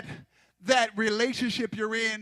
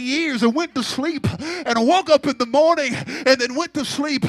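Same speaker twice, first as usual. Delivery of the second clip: rising, louder preacher cadence; preaching; 4 semitones higher, 5 dB louder than usual. Acted. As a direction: stack the list and build. Preacher building a list.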